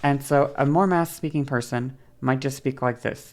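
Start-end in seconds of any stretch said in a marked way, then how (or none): 2.2-3.3 level pitch with little movement; monotone masculine speech. Shown as a demonstration. Voice teacher demonstrating masculine-leaning speech, monotone. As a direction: keep it even and slightly understated. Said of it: "a little more monotone".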